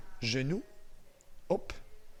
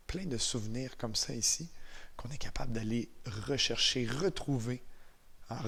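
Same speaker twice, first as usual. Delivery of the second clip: guided visualization; 2 semitones lower, 5 dB quieter than usual. Real, not acted. Instructor guiding eyes-closed memories of first snow, calm and unhurried. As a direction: ease them softly into a memory.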